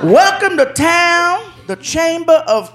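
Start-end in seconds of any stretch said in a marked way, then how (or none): 0.0-1.5 delighted reading. Retold or imitated. Guest reads card.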